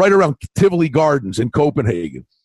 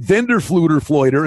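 mock Danish gibberish; 3 semitones lower than usual. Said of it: "the kid looks at me and goes, "Vendor Fluter".

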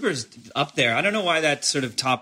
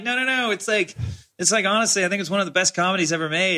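eager protest; 7 semitones higher, faster than usual. Retold or imitated. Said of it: "I laughed and I'm like".

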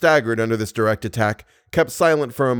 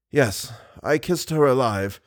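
more connected effort; slower than usual. Acted. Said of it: "making an effort to speak more connectedly".

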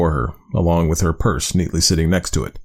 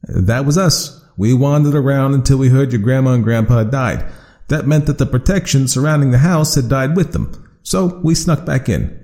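louder, higher chatty monster; a cheerful monster explaining itself; friendly creature voice; 6 semitones higher, 4 dB louder than usual. Acted. Creature voice held in story.

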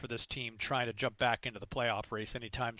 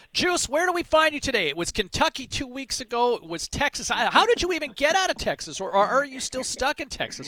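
excited; 12 semitones higher, 6 dB louder than usual. Real, not acted. Host greets guest with big energy.

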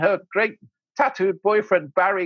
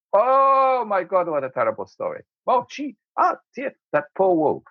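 mock dismay; 3 semitones higher than usual. Father to son over the bedtime tale, mock dismay. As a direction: groan it out in pretend dismay. Acting old man's horrified reaction to tale.

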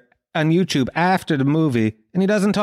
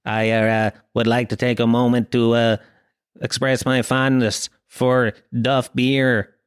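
lower, halting politician at a podium; John F. Kennedy; 5 semitones lower than usual. Acted. Kennedy declaring his taste for beer at a debate, mock presidential. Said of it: "it goes to John F. Kennedy".

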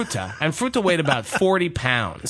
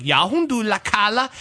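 higher-pitched mild mock yell; retold yell; 6 semitones higher than usual. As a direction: imitate a mother calling out in Norwegian, only half yelled. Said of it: "Mona yells at Trina".

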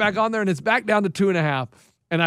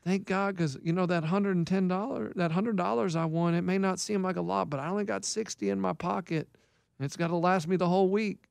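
Keith; 8 dB quieter than usual. Retold or imitated. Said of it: "he goes".

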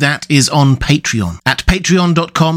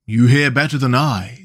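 sad. Acted. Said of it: "said the mole sadly".

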